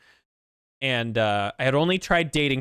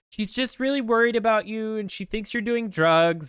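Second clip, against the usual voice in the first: lightly acted, higher-pitched plea; imitating pleading sister; 9 semitones higher than usual. Sister pressuring her about mom, higher insistent pleading. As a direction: raise the pitch, press the point.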